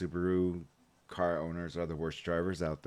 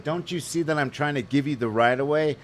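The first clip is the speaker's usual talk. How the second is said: loud, higher furious rant; retold angry yelling; 7 semitones higher, 4 dB louder than usual. Yelling at the driver who wouldn't take the right of way, loud and furious. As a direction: let him have it, full volume. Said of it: "I said".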